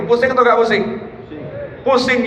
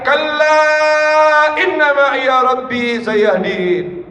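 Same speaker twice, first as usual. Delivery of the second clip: very slow drawn-out cry; prophet's cry; 4 semitones higher, much slower than usual. Acted. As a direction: proclaim with slow conviction. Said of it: "Nabi Musa alaihissalam teriak". (Musa berseru kepada umat dengan lantang dan sangat lambat)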